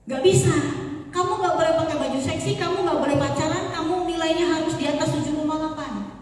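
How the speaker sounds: strict mother. Acted. Strict mother forbidding her daughter.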